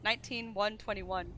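nineteen one twenty-one said slowly and clearly; slow clear repeat. Real, not acted. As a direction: spell out nineteen one twenty-one slowly for someone who missed it.

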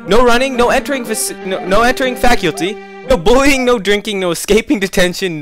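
announcer voice. Acted. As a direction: read the rules like a hall announcer. Reading rules in announcer voice.

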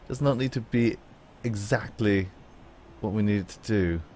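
lightly put-on British accent; a hint of fancy British in the voice. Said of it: "a fancy British accent".

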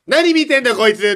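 high, loud startled thought; shocked outburst. Retold or imitated. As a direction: react to a shocking sight. (驚きの心の声)

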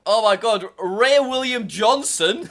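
slow, loud, high disbelief; laughing surprise. Real, not acted. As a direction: laugh out the name in shock. Finds old video in history.

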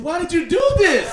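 high, loud yell of blame; shouted question. Retold or imitated. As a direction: yell it at her, accusing. Angry confrontation with woman.

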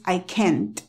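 CAN'T as "kent", final T sounded. Shown as a demonstration. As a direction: finish CAN'T on a T. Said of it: "con la T".

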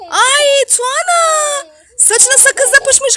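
surprised gasp. Real, not acted. Mother discovers gum in hair.

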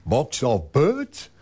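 slow, baffled repeat of the slang; puzzled echo. Retold or imitated. Migrant puzzling over a Kiwi phrase, slow and baffled. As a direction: repeat it slowly, confused by the phrase. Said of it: "They simply will not have an idea".

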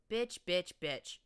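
loud, sharp jeering repetition; sharp stallion. A narrator's reading. Stallion jeering at his captive, sharp loud insult. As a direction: spit the word at him. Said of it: "a stallion said sharply".

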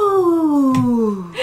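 long exhaled "ooh", sliding down; calming breath. Shown as a demonstration. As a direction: let out a drawn-out calming breath after laughing. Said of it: "That was my calming breath".

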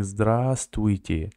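Здравствуйте read slowly, every letter sounded; careful full reading of Здравствуйте; read as written. Shown as a demonstration. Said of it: "you can read it like".

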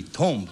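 "tomb" said as "tome"; long o in "tomb", as spelled; spelling pronunciation of tomb. Shown as a demonstration. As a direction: say "tomb" to rhyme with home. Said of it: "Should be tomb".

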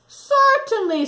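high, slow, sing-song kangaroo; a cheerful kangaroo's "certainly". A narrator's reading. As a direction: draw it out, sweet and high. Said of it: "said the kangaroo".

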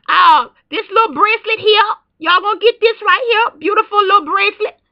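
scratchy, hoarse throat. Real, not acted. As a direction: talk through a sore, hoarse throat. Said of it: "talking like this".

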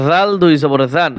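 জাল and জান begun with a soft th-like z; soft letter. Shown as a demonstration. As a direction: say the consonant in জাল and জান softly. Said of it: "নরম করে".

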